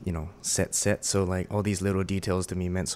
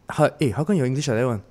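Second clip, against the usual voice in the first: Singlish; 4 semitones higher, faster than usual. Retold or imitated. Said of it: "the lady says".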